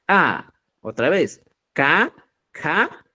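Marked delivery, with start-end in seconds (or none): 0.1-0.5 A begun with a popped ejective k; glottalized k. Shown as a demonstration. Teacher contrasting phonemes, glottalized A. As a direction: click the k in the throat into A. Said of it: "el glotalizado es".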